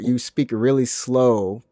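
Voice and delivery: dragged-out, slow words; mock slow speech. Mocking how anime dubs voice Southerners, slow. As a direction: stretch REALLY SLOW to show the slowness. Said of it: "speaking so slow".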